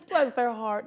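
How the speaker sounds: sweetly condescending Southern lady; Southern belle sympathy; Southern bless their heart. Retold or imitated. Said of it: "That's Southern".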